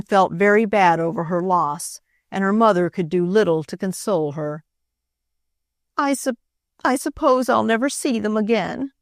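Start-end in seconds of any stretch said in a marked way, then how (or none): 6.0-8.9 sobbing. Acted. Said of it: "sobbed the girl".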